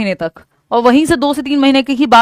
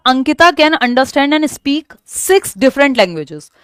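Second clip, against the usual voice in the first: reading the question; much slower than usual. Acted. Reads question aloud.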